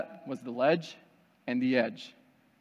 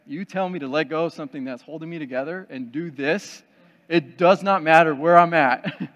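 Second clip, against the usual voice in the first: adamant protest; 6 dB louder than usual. Acted. Man scared of heights objects to letting go, adamant protest. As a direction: build to a loud, emphatic refusal.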